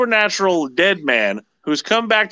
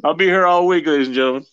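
brash vaudeville comic; 4 semitones lower, faster than usual. Acted. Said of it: "Try the veal".

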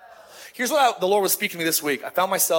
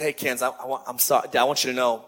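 sincere apology; 5 semitones lower than usual. Retold or imitated. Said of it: "I just said".

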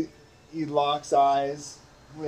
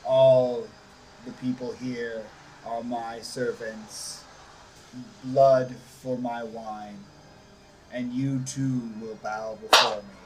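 lightly voiced vampire lord. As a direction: announce yourself as an overlord. Strahd introduces himself.

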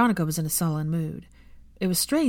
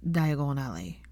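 slow, lower, reluctant admission; a touch of apologetic Draco; 3 semitones lower, 4 dB quieter, slower than usual. Acted. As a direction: let it out slowly like a wince. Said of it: "apologetic grimace".

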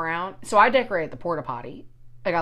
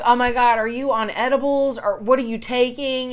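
raised pitch, acted-out incredulous questioning; mock astonishment; 5 semitones higher, 4 dB louder than usual. Questioning her friend about edibles, mock astonishment. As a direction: imitate a startled friend asking.

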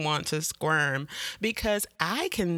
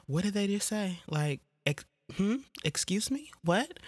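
baffled; 5 semitones higher, 4 dB quieter than usual. Retold or imitated. Baffled by heavy accents.

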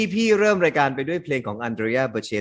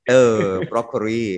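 chuckling over a silly mistake; amused laughing; 3 dB louder than usual. Real, not acted. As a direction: say it through real laughter. Laughing at broccoli mispronunciation. (พูดไปหัวเราะไป)

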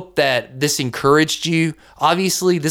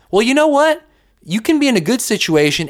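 excited lift; 7 semitones higher, faster than usual. Real, not acted. Podcast host encourages listeners.

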